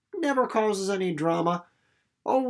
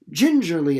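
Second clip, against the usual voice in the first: "gingerly" stretched and leaned on; emphasised gingerly; 6 dB louder than usual. Shown as a demonstration. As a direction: draw out "gingerly" as the key word. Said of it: "starting to catch on".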